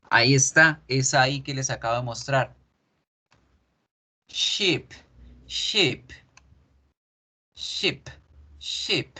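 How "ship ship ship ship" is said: "ship" said as sheep, vowel drawn out; "ship" with a long falling ee; lengthened I, sheep. Shown as a demonstration. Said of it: "Alargo la I un poquito".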